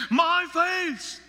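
scripture reading. Acted. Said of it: "He said in chapter sixteen".

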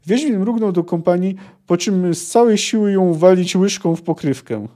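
lively audiobook-style reading of a novel passage; story reading. A narrator's reading. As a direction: read the book scene aloud with a little life in it. Reads the Okogłów scene aloud.

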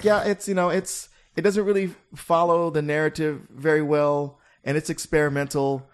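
lightly voiced reluctant film host; hesitant presenter. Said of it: "Are they speaking in that voice like".

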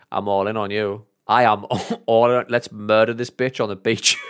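giggling through the words; laughing through a mock battle cry. Retold later enthusiasm, laughing.

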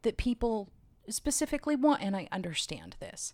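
talking through hiccups; hiccuping between words. Real, not acted. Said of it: "Do you have to burp".

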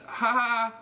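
high, loud fake ha-ha; mock laugh. Comedian imitating a dating match's texted laugh, mock laughter. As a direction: read typed laughter as a stilted high laugh. Reads out her typed laughter.

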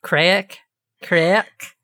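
"crack" tried twice with a questioning rise; trying out craic. Shown as a demonstration. Asking if it's said right, tentative rising "crack". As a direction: test the Irish word "crack", unsure of its vowel. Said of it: "Am I saying it right?".

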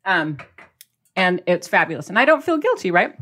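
ordinary talk, nothing marked

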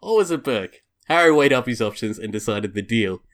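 measured storybook reading voice; story narration. Acted. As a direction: read it out like a storybook. Reads erotic fan fiction aloud.

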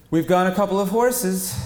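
high, loud and breezy Janet; high bored queen. Acted.

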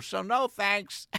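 dismissive, dragged-out no thanks; drawn-out refusal. Retold or imitated. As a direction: stretch the refusal out. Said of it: "and I said".

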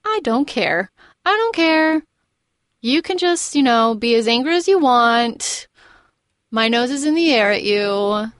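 mildly mocking indifference; a touch of imitated haughty unconcern; indifferent. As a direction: play it airily unbothered, pausing between phrases. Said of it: "standing there indifferently".

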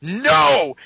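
sudden high cry of No; retold yell. Spider-Ben refusing Spider Carnage's order, high cry. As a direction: shout the No in protest. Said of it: "Spider-Ben yelling".

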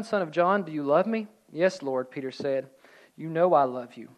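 measured read-aloud with pauses; scripture reading. A narrator's reading. Preacher reading John's gospel to congregation, measured narration. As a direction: read the passage out evenly.

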